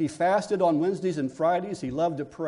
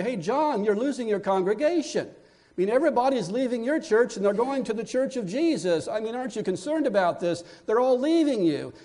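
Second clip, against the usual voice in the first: worried disciples; 4 semitones higher than usual. Acted. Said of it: "and they say".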